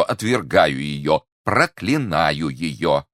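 slow, drawn-out declaration; emphatic disowning. Acted. Prisoner renounces his wife to the commissioner, slow and emphatic. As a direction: stretch the words into a solemn renunciation.

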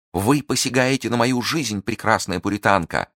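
lightly voiced sneering lord; mocking captor. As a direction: captor toying with his prisoner, mildly mocking. Captor mocks the prisoner.

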